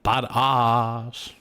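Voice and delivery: drawn-out, slow mock tough-guy line; mock badass. Streamer pretends to be tough, slow mock swagger. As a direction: lightly put on a cool badass voice. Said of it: "I like to pretend like I'm totally badass".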